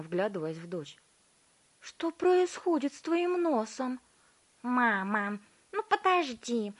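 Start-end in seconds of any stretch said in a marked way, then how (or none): 1.8-4.0 high, loud alarmed question; mother sees Violetta's nose; frightened mother. A narrator's reading. 4.6-6.7 high, loud whine; impatient girl. A narrator's reading. Violetta brushing off mother.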